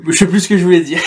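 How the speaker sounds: laughing at losing the thread. Real, not acted. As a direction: say it through a sheepish laugh. Forgot question, laughs it off.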